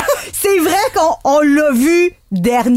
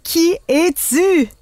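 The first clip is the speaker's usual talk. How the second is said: dramatic reveal; 3 semitones higher, much slower than usual. Acted. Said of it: "dramatic reveal call".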